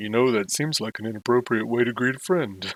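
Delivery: really deep, low character voice. Playing a game, voicing a character greeting a friend, in a really deep, low voice. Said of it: "It's like a really deep, low voice".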